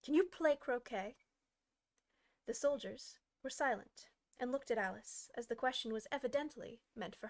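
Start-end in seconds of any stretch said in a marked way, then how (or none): 0.0-1.2 higher, loud query; loud call. Acted. Queen calling Alice to play, loud. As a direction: call it out to her.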